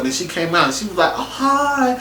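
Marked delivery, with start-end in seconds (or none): 1.2-1.9 mock her weirdly perky greeting with cooing oohs; imitated upbeat. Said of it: "upbeat and about everything".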